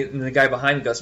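normal talking voice

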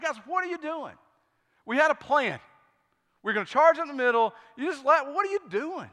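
exasperated leader, acted lightly; retold exasperation. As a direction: scold the team in retold disbelief. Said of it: "I'm so mad".

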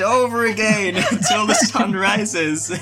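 a cackling ritual leader's boast; laughing mock proclamation. Ritual leader announces endless chanting, laughing as he proclaims. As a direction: proclaim it grandly while breaking into laughter.

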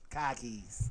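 broad Boston accent, dropped r. Shown as a demonstration. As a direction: say it like a Boston local. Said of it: "That's my Boston accent".

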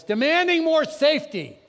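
loud, high burst; rising exclaim. Real, not acted. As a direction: lift it to a cry. Preacher builds to a peak.

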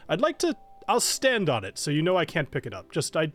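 a timid knight pretending bravery; nervous knight. GM plays nervous Roland.

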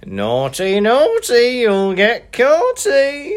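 rising to high, loud, slow sing-song; spring the taunt on him; teasing taunt. Shown as a demonstration. Taunting her friend ordering a pint, high sing-song. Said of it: "You wanna try that on me now?".

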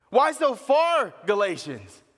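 slow, high, loud call; Paul calling the Galatians closer, slow and loud; loud plea. Retold or imitated. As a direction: stretch it out, pleading loudly.

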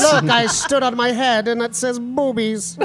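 goofy voice. Pretend. Goofy character voice, laughing.

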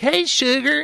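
high, put-on female greeting; mock sweet hostess; flirty bath woman. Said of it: "a woman comes in".

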